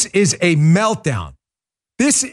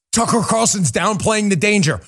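ordinary talk, nothing marked

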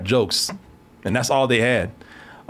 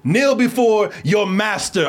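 supervillain voice; 5 semitones higher, slower than usual. Retold or imitated. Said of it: "a supervillain just would have said".

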